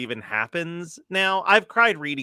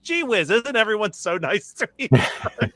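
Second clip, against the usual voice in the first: mock gushing; 6 semitones higher than usual. Mock sappy inner voice.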